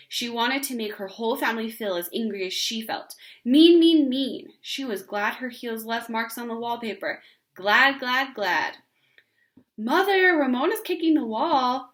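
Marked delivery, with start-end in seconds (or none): 3.4-4.5 much higher, louder, chanted in time to the kicks; yelled in rhythm. Acted. Ramona to her family, yelling in time with her heels. Same yell continues. 9.8-11.9 much higher, louder call to mother; tattling cry. Acted. Beezus calling to her mother, tattling. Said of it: "cried Tattletale Beezus".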